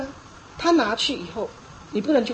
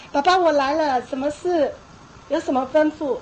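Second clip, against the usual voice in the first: 模仿幼儿应答; 3 semitones higher than usual. Retold or imitated. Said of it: "两三岁孩子".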